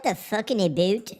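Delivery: mock Canadian "aboot"; lightly hammed Canadian vowels; Canadian accent. Shown as a demonstration. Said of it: "Like, like Canadian?".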